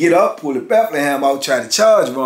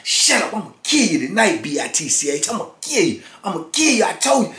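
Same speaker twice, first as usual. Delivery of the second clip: imitated threat; 4 semitones higher than usual. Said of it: "you heard Ron holler".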